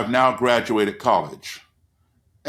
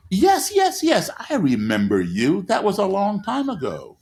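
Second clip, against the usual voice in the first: mock startled voice, jumping high on the first yes; a hammed-up flustered man caught off guard; startled recognition; 10 semitones higher than usual. Startled Nazi leader recognizes him.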